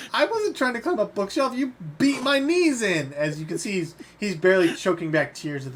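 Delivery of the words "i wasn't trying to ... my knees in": whining victim. Acted. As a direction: plead through pain, voice pitched way up. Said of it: "He goes".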